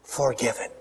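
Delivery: soft, low forgiven; gentle. Shown as a demonstration. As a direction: say "forgiven" softly and low, like a reassurance. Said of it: "say it with me".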